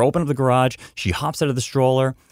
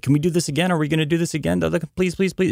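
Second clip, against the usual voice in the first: put-on much higher, pleading little girl; begging child; 8 semitones higher, much faster than usual. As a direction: ask again like a kid who can't wait. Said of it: "She's like".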